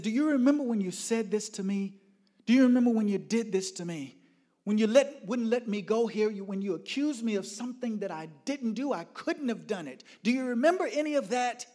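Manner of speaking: high, loud, accusing tirade; angry rant. Retold or imitated. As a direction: hurl the accusations down the phone. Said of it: "I went into this rant".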